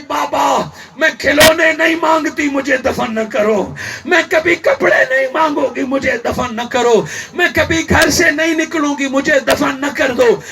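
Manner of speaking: impassioned retold child's plea; tearful crying out. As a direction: beg the father, each plea falling away. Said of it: "رو کے چلا کے کہتی".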